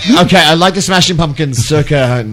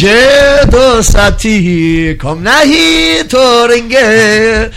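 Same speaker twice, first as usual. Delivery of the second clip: hammed-up Indian accent, higher and slow, singsong gibberish; mock Indian accent; 7 semitones higher, much slower than usual. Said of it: "Can you do an Indian accent?".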